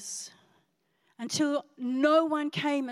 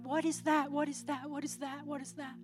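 fading wonder; 5 dB quieter than usual. Retold or imitated. Amazed at heat from Bible.

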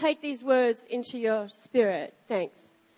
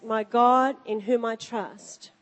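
scripture reading. Acted. Reads scripture aloud.

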